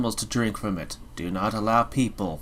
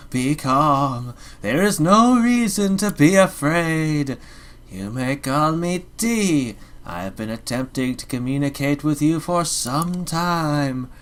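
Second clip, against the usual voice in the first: haunting voice; 3 semitones higher than usual. Acted. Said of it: "I'm getting tired of this voice".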